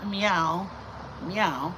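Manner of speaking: small, mild mock meows; plain little cat meows, stepping down; ordinary cat meow. Shown as a demonstration. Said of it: "because it wasn't just like".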